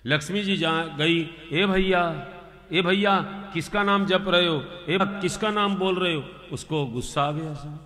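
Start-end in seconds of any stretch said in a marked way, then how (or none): 1.5-6.2 higher calling ए भैया; a woman hailing a stranger. Acted. Lakshmi in disguise calls out. (ऊँची आवाज़ में पुकारना)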